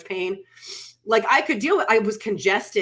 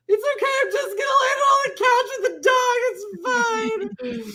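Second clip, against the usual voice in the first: much higher, crying wail, mock-tragic; hammed-up sobbing. Sick wife sobbing to husband about lying with the dog, hammed-up crying wail. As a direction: wail it through exaggerated sobs. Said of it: "I just sobbed".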